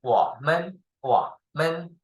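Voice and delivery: 我们 with dipping 我 and short light 们; joined neutral tone. Shown as a demonstration. Teacher mixing the words, light neutral tone. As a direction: run 我 and light 们 close together. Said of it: "Close together, mix together".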